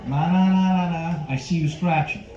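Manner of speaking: lightly voiced door-to-door salesman; a hint of a film tough guy, pausing between remarks; Robert De Niro. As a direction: leave gaps and tag on questioning grunts. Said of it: "my impression of Robert De Niro as a door-to-door Vagisil salesman".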